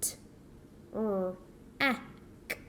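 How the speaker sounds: "T, r, a, k" one sound at a time. Shown as a demonstration. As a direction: pause after each sound in "T, r, a, k". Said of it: "I say those two quickly".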